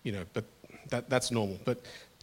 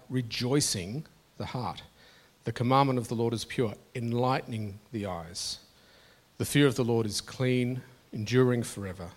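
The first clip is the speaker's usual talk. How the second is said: key words leaned on, louder at each line's start; emphasized scripture reading; 3 dB louder than usual. Shown as a demonstration. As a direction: read the psalm aloud, pressing the important words. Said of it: "I'll emphasize certain words".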